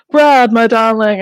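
slow, mock-swooning read of a love note; mocking diary voice. Brother mocking his sister's diary, a slow swooning put-on voice. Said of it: "he's putting on, like, a weird voice".

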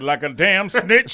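drawn out, laughing through it; slow and amused, quoting the dad; slow laughing movie quote. Retold or imitated. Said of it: "He said".

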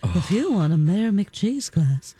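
slow, drawn-out ad voice; announcer voice. Retold or imitated. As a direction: read it like a retro commercial. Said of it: "The voice is ridiculous".

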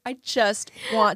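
whispered through laughing tears; laugh-cry the words in a whisper; tearful laugh. Real, not acted. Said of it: "laughing tearfully at the motto".

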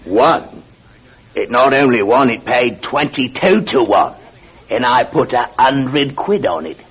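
bursting with the good news; delighted landlord. Acted. Landlord telling the widow her horse won, delighted.

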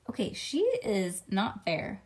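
ordinary delivery, nothing marked

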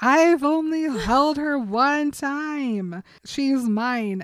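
high, loud, slow indignant protest; outraged. Retold or imitated. Bella protesting to Jacob, high and loud in outrage. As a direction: pitch it up in outraged disbelief.

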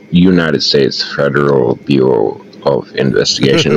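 put-on official caller in an American accent; formal FBI agent, put-on American accent.

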